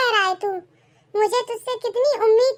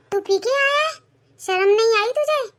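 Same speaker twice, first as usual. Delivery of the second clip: high, shocked rebuke; shocked scolding; 4 semitones higher than usual. Acted. Mother confronting her drunk son, shocked scolding. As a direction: demand it in disbelief.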